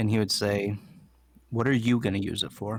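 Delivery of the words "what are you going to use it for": grave, dead-earnest, serious tone. A storyteller voices a character putting a question to another character, real serious. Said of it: "real serious".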